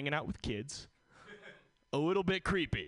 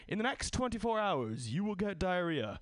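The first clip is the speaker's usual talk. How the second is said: raised-pitch mock prophecy; higher, measured announcement of fate; fortune reading; 5 semitones higher than usual. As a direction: proclaim it like a solemn prediction. Made-up fortune read out.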